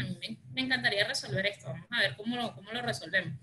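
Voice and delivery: quick and dismissive, words not meant; offhand. Shown as a demonstration. Mediator showing insincere words that lack real attitude. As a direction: rattle it off fast as if you don't care. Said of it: "la actitud no va acompañada".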